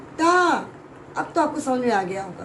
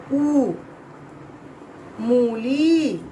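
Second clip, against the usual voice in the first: slow sounding out; much slower than usual. Shown as a demonstration. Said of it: "teacher sounding out a word".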